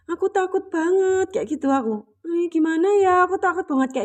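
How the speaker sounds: a hint of a frightened little kid confessing; like a small child. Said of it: "aku tuh kayak anak kecil ya". (sedikit seperti anak kecil yang ketakutan)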